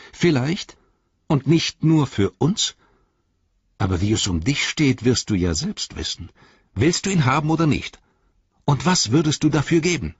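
a sly hobbit hinting; Merry's voice. A narrator's reading.

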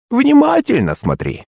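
put-on high, slow old hag voice; drawing it out mysteriously; insistent crone. A narrator's reading. Старуха требует внимания. (высоко и медленно, как бабка-колдунья)

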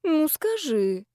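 high, slow, drawn-out wheedling; mild whiny begging; whining. A narrator's reading. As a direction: plead like a nagging child. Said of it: "кивнула подруга и заныла".

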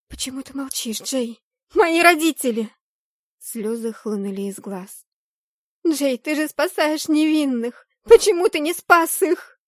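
high, loud, tearful accusation; anguished shout. Acted. Heroine accuses Jay over her parents, anguished shout. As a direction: cry out at him in despair. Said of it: "начала кричать на него".

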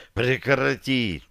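very slow, strained plea; writhing in pain. A narrator's reading. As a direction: drag the plea out in agony. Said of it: "корчась выдохнул я". (мучительно, протяжно)

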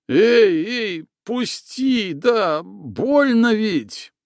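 high, strained cry of pain; pleading to be let go; alarmed high yelp; choked boy. A narrator's reading.

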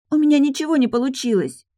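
put-on high, upset child's cry; little girl. A narrator's reading. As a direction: wail it like a disappointed girl. Daughter runs to nanny. (высокий огорчённый детский голос)

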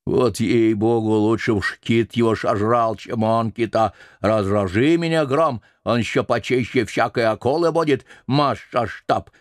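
lightly voiced mumbling old cook; very old man. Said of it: "прошамкал старик".

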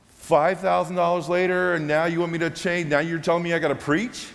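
like the rug just got pulled out; stunned disbelief. Retold or imitated. Retelling his shock at being told to preach, incredulous.

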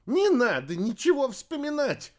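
high, loud panicked yell. A narrator's reading. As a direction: yell to stop her. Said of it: "завопила девушка".

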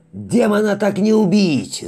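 high, loud, straining cry; voice cracking with strain. Acted. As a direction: push until the voice breaks. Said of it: "срывающимся от напряжения голосом".

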